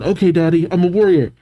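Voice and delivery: lightly voiced brave little boy; child crying out. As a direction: pipe up like a plucky child. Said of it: "Cullen cries out".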